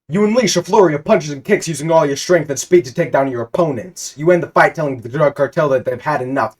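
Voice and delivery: loud, high battle narration; hyped fight narration. A narrator's reading. GM narrating the brawl, pumped up. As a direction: hype up the fight.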